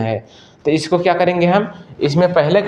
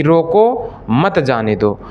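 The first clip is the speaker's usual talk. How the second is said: रोको held long, a pause, then मत जाने दो together; pause after रोको; much slower than usual. Shown as a demonstration. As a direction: break the phrase right after रोको. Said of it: "रोक लीजिए और जाने ना दीजिए". (रोको के बाद विराम)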